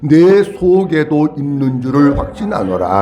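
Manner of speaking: steady communal Bible reading; scripture reading. Real, not acted. Leads scripture reading aloud.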